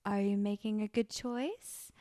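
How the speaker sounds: unruffled, even-toned parenting question; imitating chill parent. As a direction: ask a child with unbothered patience. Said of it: "is annoyingly chill".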